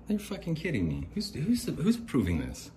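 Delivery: can't believe what he's hearing; incredulous yelp about eBay's excuse; exasperated outrage. Real, not acted. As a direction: voice shooting up high in disbelief. Outrage at eBay refusing refund.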